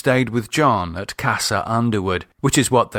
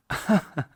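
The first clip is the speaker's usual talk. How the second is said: quiet amused chuckle; a short, soft laugh at his joke; 7 semitones higher, 4 dB quieter than usual. A narrator's reading. Sister chuckles at her brother's tea joke. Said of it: "She chuckled".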